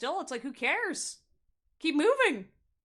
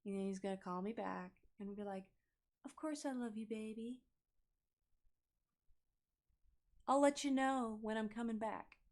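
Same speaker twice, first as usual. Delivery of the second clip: bored mutter; 7 dB quieter than usual. Retold or imitated. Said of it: "being like".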